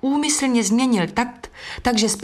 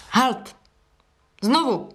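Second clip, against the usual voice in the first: roaring; 4 semitones higher, slower than usual. A narrator's reading. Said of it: "Takřka řval dirigentův".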